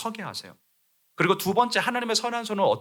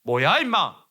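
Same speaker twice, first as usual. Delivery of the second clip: angry king; 3 semitones higher, 5 dB louder, slower than usual. Retold or imitated. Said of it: "왕이 화가 났다면".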